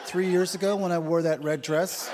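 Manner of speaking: mock the wife springing a topic in bed; pouty mock wife voice; wife's needy question. Wife raising old grievance.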